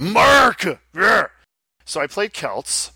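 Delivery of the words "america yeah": high shouted cheer; loud cheer. Pretend. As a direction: whoop it like a patriot rally. Cheering America.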